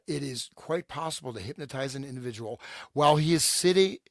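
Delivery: measured, deliberate document reading; reading a letter aloud. Acted. Co-host reads an old letter to the panel, read-aloud delivery. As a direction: read it out clearly for listeners.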